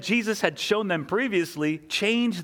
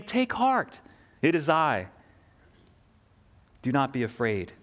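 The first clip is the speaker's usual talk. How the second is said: compassionate reassurance; 4 semitones lower than usual. Acted. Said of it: "Jesus speaks with compassion".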